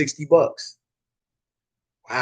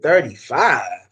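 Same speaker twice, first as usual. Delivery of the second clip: slow, drawn-out incredulous echo; retold disbelief; 3 semitones lower, much slower than usual. Customer questioning the detailer's low price, retold disbelief. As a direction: stretch THIRTY-FIVE out as a doubting question.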